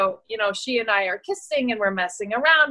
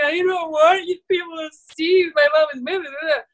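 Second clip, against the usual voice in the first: lightly voiced upset kid; 5 semitones higher than usual. Voicing upset son.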